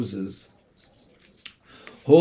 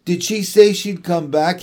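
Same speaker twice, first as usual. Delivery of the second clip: higher, louder pleading question; eager cry; 4 semitones higher, 5 dB louder than usual. Acted. Michael crying out to his mother, high and loud. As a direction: beg for an answer. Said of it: "he cried".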